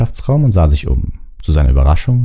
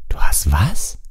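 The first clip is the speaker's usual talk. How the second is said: stunned; much slower than usual. Acted. Harry stunned by news.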